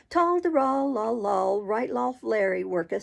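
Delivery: sing-song jeering taunt; mocking. A narrator's reading. Noah taunting Oliver, mocking sing-song. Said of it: "said Noah as a tear rolled".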